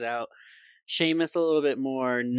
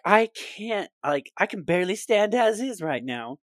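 put-on higher pained voice of a hurt boy; strained Neville; 7 semitones higher, 4 dB louder than usual. S0 voicing Neville hurt from the curse, higher strained voice. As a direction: squeak out how much it hurts.

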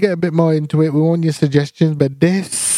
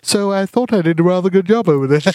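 British actor. Acted. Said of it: "And then it's like".

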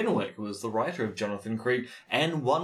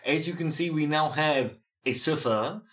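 put-on French accent; 3 semitones higher than usual. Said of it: "I don't know why I said that with a French accent".

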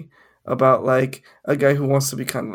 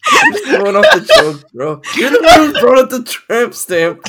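high, loud, indignant; defensive protest; 8 semitones higher, 8 dB louder than usual. Real, not acted. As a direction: protest your innocence loudly.

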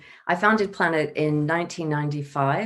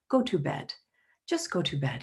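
soft, lightly imitated guru voice, a touch quieter; gentle melodic imitation; 5 dB quieter than usual. Retelling the guru's bedtime advice, in a lightly imitated gentle voice. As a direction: mildly mimic a kind old teacher's soothing advice. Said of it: "this lovely melodic voice".

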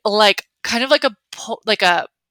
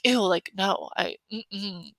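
softer ew no, trailing into a hum; blunt refusal; 8 dB quieter, much slower than usual. Shown as a demonstration. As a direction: refuse family casually. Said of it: "I would just be like".

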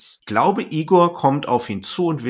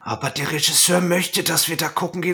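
higher, whiny plot-brake voice; mock whiny character; 6 semitones higher than usual. Mina sulking at the director about the plot. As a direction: ham up the sulky heroine.

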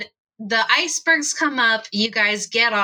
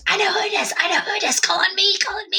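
very high, eager pupil voice; Remy; 10 semitones higher, much faster than usual. Acted. Remy with hand up begs to answer, excited. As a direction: beg eagerly to be picked, high. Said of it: "And she goes".

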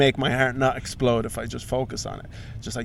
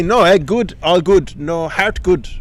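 paramedic's broken English; 4 semitones higher, 4 dB louder, slower than usual. Retold or imitated. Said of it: "They say".

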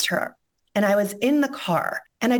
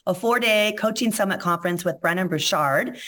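hoarse voice. Real, not acted. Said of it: "I sound super hoarse".

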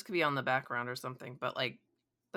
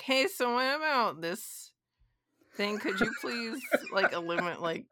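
eager fan voice; 7 semitones higher than usual. Retold or imitated. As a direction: gush like a starstruck fan. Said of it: "nerds at the convention ... being like".

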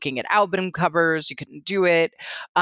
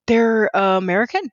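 hesitant, higher, rising on "American"; surprised question; 4 semitones higher than usual. Retold or imitated. Host reliving her Instagram discovery, surprised and questioning. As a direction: question "American" in disbelief, voice lifting.

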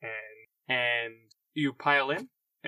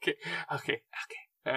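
whispered okays; 3 semitones higher, 3 dB quieter than usual. Real, not acted. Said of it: "whispered reaction".

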